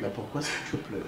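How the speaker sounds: very soft, concerned question; hushed soothing. Acted. Comforting a crying parent, hushed. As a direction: ask gently under the breath.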